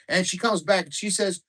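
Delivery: loud, high rowdy Canadian guy telling a dirty joke, eh; thick Canadian accent. Retold or imitated. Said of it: "in thick Canadian accents".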